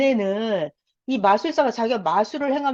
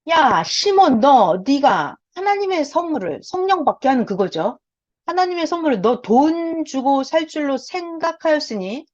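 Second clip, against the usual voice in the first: raised, scolding voice of Peter; Peter's rebuke; 3 semitones higher than usual. Retold or imitated. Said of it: "베드로가 난리가 난 거예요". (꾸짖는 베드로의 목소리)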